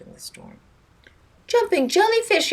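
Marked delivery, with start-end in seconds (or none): 1.5-2.5 high, loud startled yell. Acted. Captain yelling as the power goes out, high startled shout. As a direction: cry out as the engine dies. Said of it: "yelled the captain".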